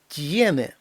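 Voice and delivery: «tiene» with soft t then ye; soft t glide. Shown as a demonstration. Teacher likens it to native letters, soft t. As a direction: soften the t in «tiene», gliding to stressed ye. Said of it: "іде м'який знак, а потім наша буква «Є»".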